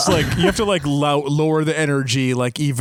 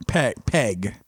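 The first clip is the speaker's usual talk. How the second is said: Hank Hill voice; 5 semitones lower, 3 dB quieter than usual. Retold or imitated. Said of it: "I gotta practice my Hank Hill".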